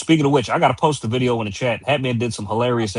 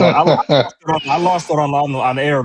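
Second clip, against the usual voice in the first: higher, louder laughing; 4 semitones higher, 4 dB louder than usual. Real, not acted. Cohost laughing about losing it live. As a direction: laugh while recalling it. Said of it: "couldn't stop laughing".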